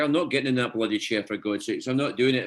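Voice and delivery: lightly voiced comic Scottish grumble; Scottish accent. Actor quoting his script's reluctant character, Scottish accent. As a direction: quote it with a touch of Scottish protest. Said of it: "It felt very Scottish to me".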